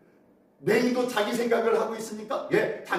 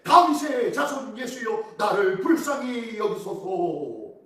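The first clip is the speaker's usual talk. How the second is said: crying out; 2 semitones higher, slower than usual. Acted. Blind beggar begs Jesus for mercy, crying out. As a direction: cry it out slowly, stretching each phrase. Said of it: "맹인이 외쳐오고 이르되".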